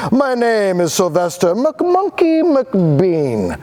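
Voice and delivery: high showman pitch, lightly voiced; a hint of a fast-talking pitchman; keen salesman. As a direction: sell it like a smooth huckster. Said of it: "in a voice clear and keen".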